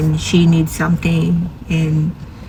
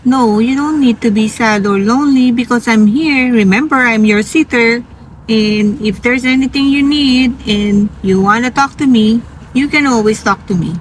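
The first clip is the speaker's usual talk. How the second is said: raised, emphatic comforting; earnest reassurance; 5 semitones higher, 3 dB louder than usual. Retold or imitated. Sitter tells lonely patient she is there, earnestly reassuring. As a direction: reassure a sad patient with lifted pitch.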